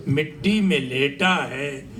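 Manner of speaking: measured phrases with pauses between them; poem recitation. Acted. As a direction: declaim a narrative poem to the room.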